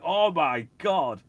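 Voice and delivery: high, loud, drawn-out gasp of words; long, astonished exclamation; retold amazement. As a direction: imitate a friend blown away on first hearing. Retold friend's amazement hearing the track.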